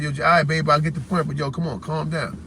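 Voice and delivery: retold placating. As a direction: imitate talking someone down, low and quiet. Retells calming Jazz down in argument.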